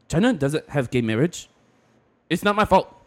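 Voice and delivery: mock Asian accent, rising into protest; Asian-accented mock defensiveness; his Asian accent. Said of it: "Sounds Asian".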